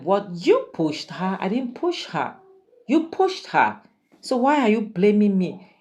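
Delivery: high, indignant you pushed her; indignant denial. Retold or imitated. Andy to AGK denying he pushed her, high indignant retort. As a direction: throw the blame back.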